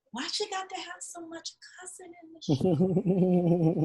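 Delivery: put-on slow, disapproving old aunt voice with a laugh; lightly voiced fussy aunt; imitating great aunt. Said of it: "This is what she said".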